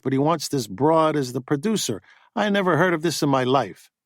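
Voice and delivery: a hint of a pushy agent griping; agent Buddy, indignant.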